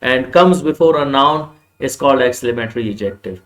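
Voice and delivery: each word drawn out for notes; slow dictation. Shown as a demonstration. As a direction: dictate it slowly to the class. (धीमी आवाज़ में लिखवाना)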